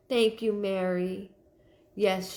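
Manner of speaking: ordinary delivery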